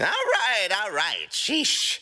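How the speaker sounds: exasperated. Acted. Rocket giving in, exasperated.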